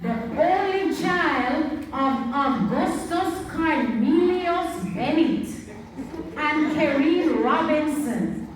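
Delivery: slow, sing-song hint of Jamaican accent; light Jamaican accent. Telling children about Louise Bennett in a light Jamaican accent. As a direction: lilt the facts the Jamaican way, unhurried. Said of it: "put on the Louise Bennett accent".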